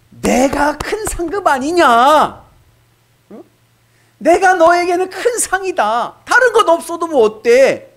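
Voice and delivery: 높고 크게, 느리게 울리는 신의 목소리; 위엄 있게 천천히 선포하듯; 하나님의 음성. Acted. 하나님 말씀을 크게 연기함. (높고 크게 천천히 선포하는 하나님 목소리)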